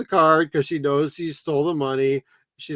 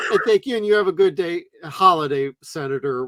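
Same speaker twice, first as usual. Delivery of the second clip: fake polite switch; 4 dB louder, faster than usual. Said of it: "She's like".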